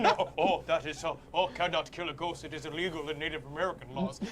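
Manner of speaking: a bad Native American accent, barely changed from own voice; hint of a Native American accent. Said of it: "That was your Native American accent?".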